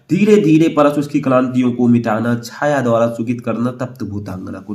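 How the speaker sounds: measured, even verse reading; poem recitation. Acted. Teacher reads exam poem to students, measured recitation. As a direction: recite it steadily, each line settling downward.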